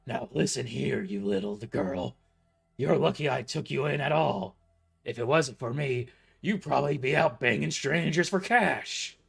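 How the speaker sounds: put-on loud insulting old boss; angry boss. A narrator's reading. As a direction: bark the insult loudly down at her.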